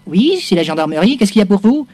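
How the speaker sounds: phone gendarme voice. Acted. Joue le gendarme au téléphone.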